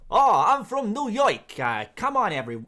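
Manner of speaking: bad English take on a New York accent, loud and high; exaggerated New York accent. Shown as a demonstration. Streamer mocking how English people do New York, exaggerated New York accent. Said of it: "the English version of a New York accent".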